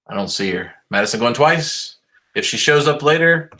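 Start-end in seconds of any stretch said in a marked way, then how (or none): 0.9-2.0 auctioneer call. Pretend. Mock auction call continues.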